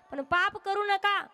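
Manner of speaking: high-pitched, insistent admonishing; stern warning. Acted. Wife warns her husband of sin's consequences, insistent warning. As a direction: warn urgently, voice lifted high.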